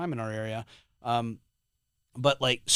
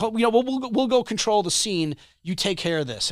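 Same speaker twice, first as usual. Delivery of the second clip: higher, louder, breezy mock cop voice; 9 semitones higher, 5 dB louder than usual. Mocking police who hand off the bleeding man, higher and louder. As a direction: lightly ham up an offhand officer. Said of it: "So they're like".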